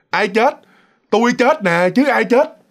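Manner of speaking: lightly voiced ghost, mocking from above; a spirit calling down from the tree, teasing; echoing ghost voice. Ghost in the tree answering the priest, echoing mock reply. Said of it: "cái giọng nói nó cũng cứ văng vẳng".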